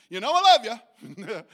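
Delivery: butter him up before the criticism; Greg's gentle setup. Retold or imitated. Greg softening up his friend before correcting him, mock sweet. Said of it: "his mechanism is this".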